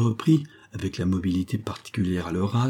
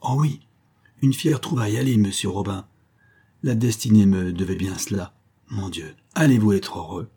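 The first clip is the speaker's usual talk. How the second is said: a touch of breathless, giddy joy; lightly played, half-choked happiness; mildly transfigured with delight; overjoyed stammer. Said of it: "bégayait, suffoquait et semblait transfiguré".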